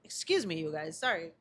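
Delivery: recovering from a choking cough; down the wrong pipe. Real, not acted. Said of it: "Something went down the wrong pipe".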